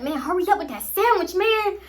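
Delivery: high, fast plea breaking into laughter; cracking up mid-plea; laughing whine. Real, not acted. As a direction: beg for the sandwich through giggles. Laughing at her high self.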